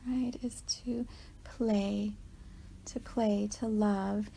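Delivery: gentle, whispery guidance with long pauses; guided meditation. Real, not acted. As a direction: tenderly guide them into remembering, unhurried. Leads a walking meditation, softened.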